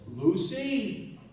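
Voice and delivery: calling her name in sudden recognition; high astonished call of a wife's name; surprised recognition. Retold or imitated.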